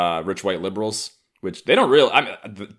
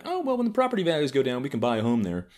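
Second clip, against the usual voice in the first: mock white liberal; 7 semitones higher, faster than usual. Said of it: "watch from afar being like".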